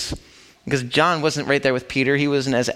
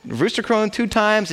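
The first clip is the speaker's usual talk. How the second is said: baffled; 8 semitones higher than usual. Retold or imitated. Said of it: "It's like, "What?".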